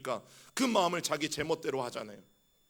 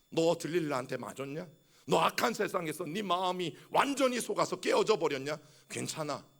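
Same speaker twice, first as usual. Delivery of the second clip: tender God. Pretend. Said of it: "말씀하시는 말씀이".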